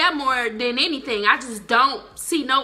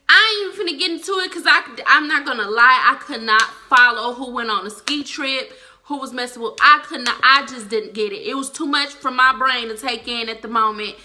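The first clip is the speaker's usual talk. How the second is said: louder, fast and fed up; exasperated rant; 5 dB louder than usual. Real, not acted. Vlogger ranting to viewers about the confusing plot, exasperated and loud. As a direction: throw up your hands at the plot.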